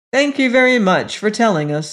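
put-on brisk boy's thanks; George. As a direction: hurry a polite brush-off. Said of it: "said George".

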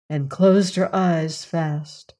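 plain reading voice

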